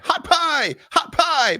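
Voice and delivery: put-on boy screaming his name beside her in battle. A narrator's reading. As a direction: shriek your own name like a war cry. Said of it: "while Hot Pie screamed".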